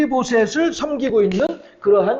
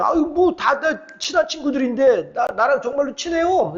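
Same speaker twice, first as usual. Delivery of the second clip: higher, lightly voiced protesting boy; reply like a boy sure of his friends; boy answering mother; 5 semitones higher than usual. Young son protests to his mother, higher pitched. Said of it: "이렇게 이제, 에, 대답을 하고 말았죠".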